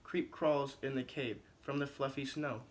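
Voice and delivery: lively storybook read-aloud for the class; reading to children. Acted. Teacher reading a picture book to her class, animated storytelling. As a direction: paint the story for the kids.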